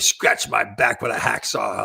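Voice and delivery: lightly voiced play-by-play man, drawn out slowly; slow broadcaster catchphrase. Retelling the Penguins announcer's famous saying, a slow mock call. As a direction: savour the famous call slowly, in a hint of his voice. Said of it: "he was famous for".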